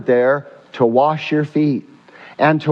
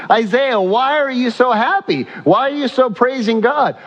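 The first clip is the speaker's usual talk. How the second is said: excited questioning; 5 semitones higher than usual. Real, not acted. Preacher questions Isaiah rising excitement.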